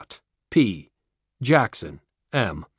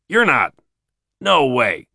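surprised; 4 dB louder than usual. Acted. Satan realizes in shock.

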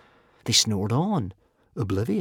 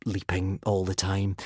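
modest whisper; 3 semitones lower, 6 dB quieter than usual. A narrator's reading. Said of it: "he whispered modestly back".

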